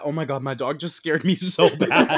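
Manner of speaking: laughing through a real fright; startled laugh. Real, not acted. Host startled by her dog mid-recap, laughing. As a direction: blurt it out, laughing at your own jump scare.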